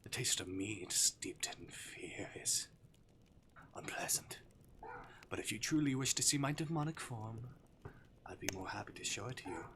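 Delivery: lightly voiced demon toying with prey; teasing Arctic demon. Demon to his captive human, playfully menacing.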